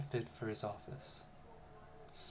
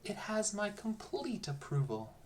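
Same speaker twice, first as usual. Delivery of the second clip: pompous emperor; 8 semitones higher than usual. A narrator's reading. Emperor feigning approval aloud.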